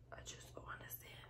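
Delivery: soft, barely voiced; despairing whisper. Real, not acted. Asking viewers why life is hard, despairing whisper. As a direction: give up on the words.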